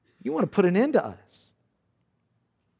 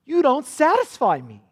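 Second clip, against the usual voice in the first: scornful husband brushing off his wife; contemptuous; 7 semitones higher than usual. Retold or imitated. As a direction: spit it at her. Repeat of husband's rejection.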